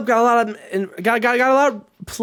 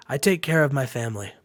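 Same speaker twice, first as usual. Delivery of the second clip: low, softer sincere line; acted reassurance; 5 semitones lower, 5 dB quieter, faster than usual. Chase with a hand on his partner's shoulder, sincere. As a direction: lower it into a heartfelt promise. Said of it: "puts his hand on Hulk Hogan's shoulder".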